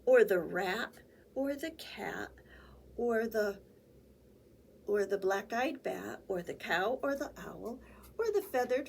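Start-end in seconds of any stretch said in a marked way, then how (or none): 3.0-3.6 whisper. Acted. Whispered aside in story.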